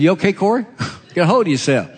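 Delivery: laughing, fast, teasing a friend; teasing through laughter. Real, not acted. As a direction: rib him while laughing.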